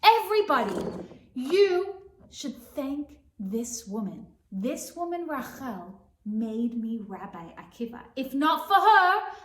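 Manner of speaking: upset rabbi. Acted. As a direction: scold the crowd, loud. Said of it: "Akiva gets upset and says".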